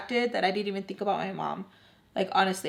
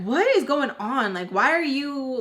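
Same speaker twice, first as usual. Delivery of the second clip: retold arguing; 5 semitones higher than usual. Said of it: "arguing with her".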